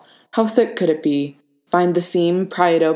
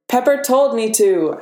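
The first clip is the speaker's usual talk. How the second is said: higher, calling from the corridor; lightly projected reply, pitched up; 6 semitones higher than usual. A narrator's reading. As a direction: call back from another room. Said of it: "Happy called from the corridor".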